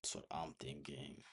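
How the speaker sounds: whispered to himself; breathy private whisper. Real, not acted. Repeats the thought, then whispers it.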